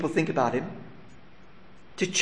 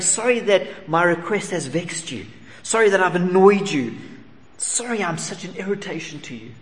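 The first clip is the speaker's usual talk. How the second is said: higher, rushed string of apologies; apologetic centurion; 5 semitones higher than usual. Retold or imitated. Preacher voicing the centurion apologizing to Jesus, higher. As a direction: heap apology on apology. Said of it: "he's saying".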